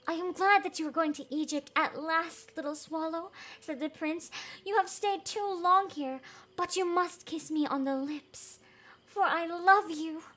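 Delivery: tender prince retake. Acted. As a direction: read the prince again gently. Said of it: "I'm gonna repeat that".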